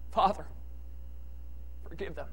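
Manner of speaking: soft and low, barely above a breath; a quiet forgiving murmur; quiet, gentle plea. Retold or imitated. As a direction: speak it gently, not crying out. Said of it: "It doesn't say he cried out".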